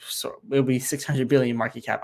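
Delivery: stumbling over the numbers; tripping over the words, halting; stuttering. Real, not acted. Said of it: "I just kept stuttering there".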